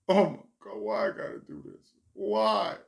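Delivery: high panicky whine; panicked. Retold or imitated. Comic about to go on stage, panicking. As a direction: freak out in a rising wail.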